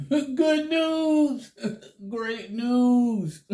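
high squeal through laughter; giggling with glee; laughing excitedly. Real, not acted. Excited laughing comeback announcement.

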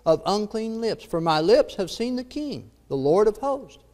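solemn, measured Bible reading with lifted phrase openings; scripture reading. Acted. Preacher reading Isaiah's calling to listeners, solemn scripture reading.

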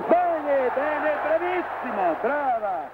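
high, bursting with joy; excited cheering. Real, not acted. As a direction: cheer her on, thrilled. Cheering the winning jump live. (entusiasmo esultante)

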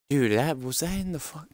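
high, shaky startled gasp of words; suddenly spooked by a noise; startled and scared. Real, not acted. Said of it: "actually deeply horrified".

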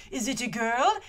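imitating a French-accented film character; lightly voiced French accent. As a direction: put on a pseudo-French accent. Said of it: "my pseudo-French accent".

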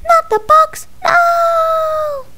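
high panicked little cry; squeaky scream. Pretend. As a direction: shriek like a tiny victim. Crayon victim pleading in play.

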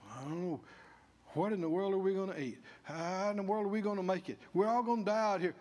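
fretful camp complaining, lightly voiced; a hint of panicky whining; mock grumbling. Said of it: "All that grumbling in the camp".

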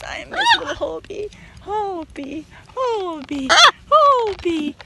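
high, rising call of pet names. Real, not acted. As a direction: call his name, building with love. Doting on parrot by name.

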